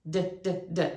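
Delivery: D sounded with the voice; voiced D. Shown as a demonstration. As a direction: say the D consonant with pitch in it. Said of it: "One's voiced".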